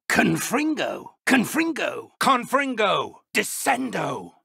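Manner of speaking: sharp, high incantations called out; shouted spells. Acted. Old professor casting spells in a duel, shouted. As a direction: cast each spell with a forceful cry.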